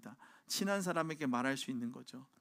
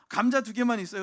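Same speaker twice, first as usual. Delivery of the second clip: neighbor mom asking; 7 semitones higher, 11 dB louder than usual. Retold or imitated. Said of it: "엄마들끼리 이렇게 얘기하는 거".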